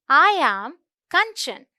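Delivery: "I am Kanchan" drawn out slowly; slow model sentence. Shown as a demonstration. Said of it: "तो ये है I".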